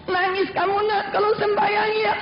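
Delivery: acted motherly concern, lightly tearful; tender mother. Mother wiping her daughter's tears, tender.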